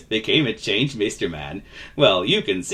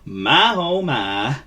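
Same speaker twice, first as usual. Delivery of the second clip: gently drawled, mild concern; gentle; 4 semitones higher, much slower than usual. Acted. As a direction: say it kindly, a little higher. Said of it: "said the vagabond gently".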